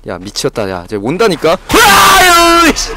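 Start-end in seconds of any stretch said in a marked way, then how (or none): 1.7-2.7 long, very high, loud scream of terror; terrified scream. Real, not acted. Streamer hit by jump scare, terrified scream.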